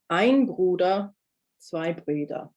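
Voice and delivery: Bruder with a back u, then Brüder with a front ü; slow, careful Bruder and Brüder; u versus ü contrast. Shown as a demonstration. Teacher modelling the pair for learners, slow and clear. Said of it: "I'm gonna say them again".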